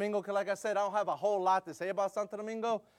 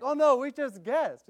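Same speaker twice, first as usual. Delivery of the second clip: put-on teen excuse; 8 semitones higher, 7 dB louder, slower than usual. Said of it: "Oh, like".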